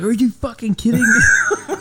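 high, laughing mock disbelief; laughing mock outrage. Retelling what he nearly yelled at his son, laughing mock outrage. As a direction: blurt it half laughing, pretending to be outraged.

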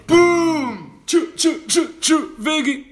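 high, loud hype ad-lib; hype shout. Acted. Hype ad-libs closing the rap.

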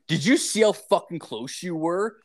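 retold snapping. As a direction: re-enact snapping back at them, mildly heated. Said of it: "I s-, fucking snapped".

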